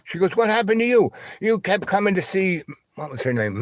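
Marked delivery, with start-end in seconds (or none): 0.4-2.6 imitated accusing woman. Retold woman throwing question back accusingly.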